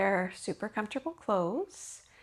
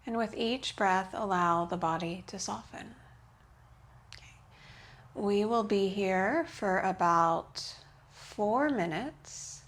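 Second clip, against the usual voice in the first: restorative yoga guidance. Real, not acted. Yoga teacher easing students into the pose, calm guidance. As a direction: guide them into rest, unhurried.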